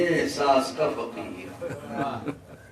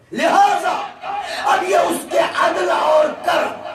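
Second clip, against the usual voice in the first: high, loud rising sermon climax; preaching at full force; 13 semitones higher, 7 dB louder than usual. Acted. Preacher thundering to the majlis about Abu Talib's household. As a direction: build to a roaring pulpit crescendo.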